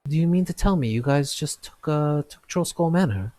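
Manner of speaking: can't believe they bought the manor; incredulous question. Acted. Blacksmith Avi astonished the newcomers bought the manor. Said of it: "he looks over at you and he says".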